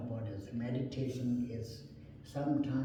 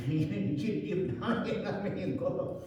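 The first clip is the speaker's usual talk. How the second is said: higher, chuckling "leave now"; laughing mock dismissal; 6 semitones higher than usual. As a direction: shoo him out while laughing. Owner dismisses him, laughing.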